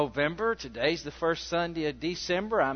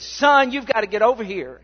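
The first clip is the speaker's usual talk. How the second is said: upset mother; 4 semitones higher, 5 dB louder than usual. Retold or imitated. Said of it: "exploding, steaming, hot, upset".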